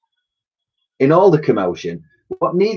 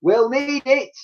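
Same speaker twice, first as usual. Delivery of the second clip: put-on girl's voice; 14 semitones higher, slower than usual. Elsie's reply continues.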